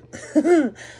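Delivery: sudden high laugh. Real, not acted. Laughing after grimace.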